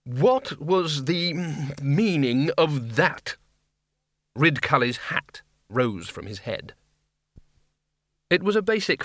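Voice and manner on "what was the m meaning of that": Arch-Chancellor demanding. Acted. Ridcully demands an explanation.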